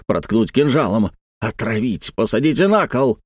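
halting angry tirade, pauses between bursts; broken, furious phrases. Acted. Uncle demands the villain be punished, haltingly furious. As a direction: chop each phrase off with restrained rage. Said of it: "разрубая с какой-то яростью каждую фразу".

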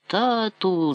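high called-out Тату; calling out to father. Acted. Boy crying out to his father in a flood, calling. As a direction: cry out for your father. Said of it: "закричав я".

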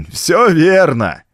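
high, slow, gleeful call; laughing taunt. A narrator's reading. Vulmi taunts the trapped men from above, gleeful. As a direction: crow it mockingly, drawing it out. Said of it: "засмеялся откуда-то сверху Вулми".

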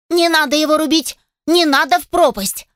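high, thin, frightened squeak; scared little voice. Acted. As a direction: plead in a tiny scared voice. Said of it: "тоненьким, дрожащим и испуганным голоском".

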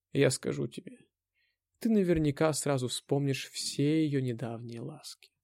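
slow, with long pauses between phrases. A narrator's reading. Anna taunts the hero, slowly, with long pauses. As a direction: drag out each sentence to torment him. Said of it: "делала невыносимо длинные паузы".

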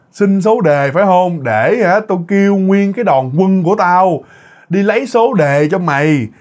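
a hint of a reedy female demon, stretching the phrases; shrill she-demon. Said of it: "nói cái giọng the thé".

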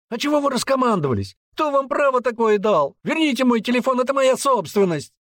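very high, loud, fast hysterical shout; teen winding himself up to hysterics; hysterical yelling. Acted. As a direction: scream it on the edge of hysteria. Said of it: "крича во всё горло".

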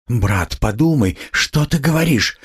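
mild flare of temper, rising high; hot-tempered. A narrator's reading. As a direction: start to scold, climbing in pitch. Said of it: "вспыльчиво начала была".

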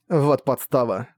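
slow, sighing resignation; weary sigh. Acted. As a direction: let it out on a tired breath. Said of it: "вздохнула она". (устало, со вздохом)

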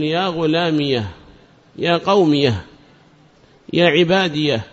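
يا غلامية، يا قومية، يا عبادية each ending in "-iyah"; pausal ha. Shown as a demonstration. Teacher listing pausal examples, يا غلامية، يا قومية، يا عبادية ending in -iyah. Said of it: "يجوز فيها الإتيان بها السكت".

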